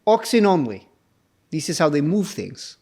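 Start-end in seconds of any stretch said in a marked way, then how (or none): 0.0-0.9 fake Russian accent. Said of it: "That's not even a Russian accent".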